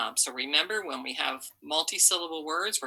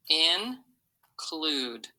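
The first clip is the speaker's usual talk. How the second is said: "Include" in two widely spaced syllables, in and clude. Shown as a demonstration. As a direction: pause long inside "Include", after in. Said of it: "Let's say each syllable".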